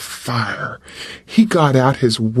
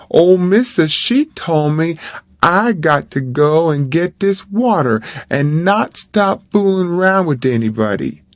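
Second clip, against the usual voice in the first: lightly voiced boy, raised pitch, refusing; nervous refusal, mindful of Missus; a hint of a worried boy saying no; Jim's dialect voice; 2 semitones higher than usual.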